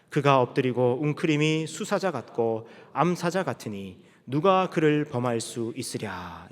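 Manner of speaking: 느리고 또박또박한 성경 봉독; 회중과 함께 읽듯 길게 끌며 낭독하기. Real, not acted. (느린 성경 낭독조)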